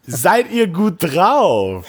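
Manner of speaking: slow, high crowd warm-up; hype host. Pretend. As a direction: pump up the crowd. Hosts hype up the audience.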